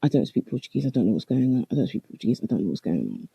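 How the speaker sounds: softening, fading to a low, scared murmur; mild retold panic, trailing off; scared pleading. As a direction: repeat it, shrinking away in fear. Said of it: "I kept saying".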